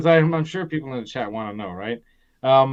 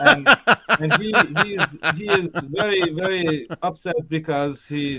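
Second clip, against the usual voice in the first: put-on light Austrian accent; 2 semitones higher than usual. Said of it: "Austrian accent".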